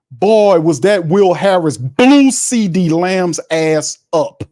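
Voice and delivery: excited play call. Real, not acted. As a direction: react to the huge hit in awe. Big hit on the play.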